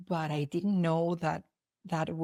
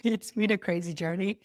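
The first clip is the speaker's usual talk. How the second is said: laughing. Real, not acted. Laughs after retelling the story.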